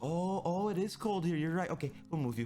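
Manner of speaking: high, lightly voiced nurse; a high mock nurse voice, fading toward the end. The nurse finally believing him, high mock voice. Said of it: "And then the wind's just like".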